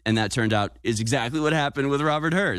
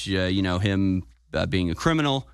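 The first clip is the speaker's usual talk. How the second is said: normal talking voice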